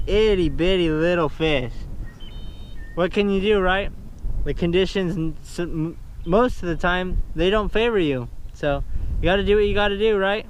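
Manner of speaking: shouting over wind. Real, not acted. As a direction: project over the gusts. Talking over howling wind.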